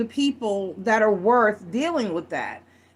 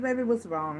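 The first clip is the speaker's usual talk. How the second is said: higher, slightly softer imitation of a concerned old lady; gently concerned; 4 semitones higher, 4 dB quieter than usual. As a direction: lightly voice a kindly woman checking on someone upset. Old lady comforts upset narrator in story.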